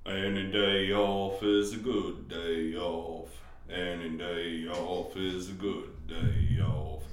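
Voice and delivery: low, slow American country drawl; sing-talk like a country singer. Pretend. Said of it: "We got a country singer".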